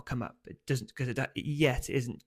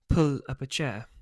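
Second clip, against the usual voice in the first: louder, sharp telling-off; stern snap; 6 dB louder than usual. Acted. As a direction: snap it at a dawdling child. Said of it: "Mum snaps".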